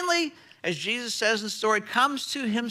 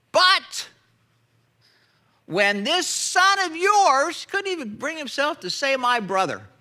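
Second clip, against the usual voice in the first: outraged brother. Retold or imitated. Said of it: "You hear his outrage?".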